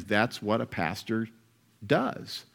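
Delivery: ordinary talk, nothing marked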